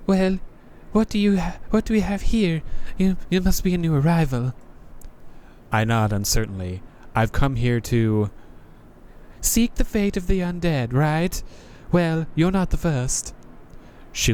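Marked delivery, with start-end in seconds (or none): 0.1-4.5 higher, world-weary knight; a jaded knight greeting a newcomer; higher sardonic knight voice; Crestfallen Knight voice. Acted. 9.4-13.3 higher, world-weary knight; a jaded knight greeting a newcomer; higher sardonic knight voice; Crestfallen Knight voice. Acted. Knight answers player.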